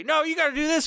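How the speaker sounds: mock voice. Mocking what fans are told.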